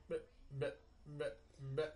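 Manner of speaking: short, choppy "bleh" noises; stuttering TV imitation. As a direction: imitate a stuttering TV signal, blip by blip. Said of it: "when the thing's like".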